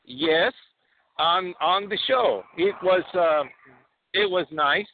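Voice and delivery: put-on proud Borat, Kazakh accent. Borat tells the hosts about American Idol, Kazakh accent.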